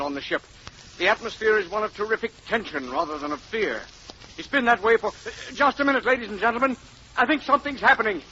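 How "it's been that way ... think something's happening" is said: reporter's voice climbing higher and louder; live radio reporter getting excited; growing excitement. Acted. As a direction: build from steady report to alarm as the ship opens. Reporter sees ship opening.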